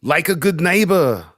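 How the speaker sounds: "neighbor" high and drawn out; put-on NEIGHBOR. Joking to co-hosts with an ad slogan, put-on "neighbor". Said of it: "No, it's neighbor. Like it's on the paper".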